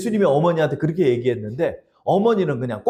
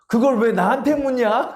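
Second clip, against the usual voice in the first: God's reply; 7 semitones higher than usual. Retold or imitated. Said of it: "그러더래요, 하나님이".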